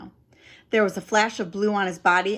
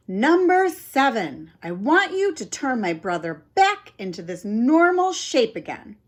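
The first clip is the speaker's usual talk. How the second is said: loud command; 4 semitones higher, 4 dB louder than usual. Acted. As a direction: announce the wish loudly. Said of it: "I said loudly".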